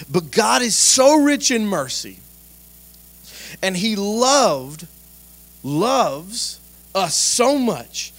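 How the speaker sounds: loud, high, slow preaching of the verse; emphatic rereading. Acted. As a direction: proclaim it with full fervor. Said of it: "can I read that one more time".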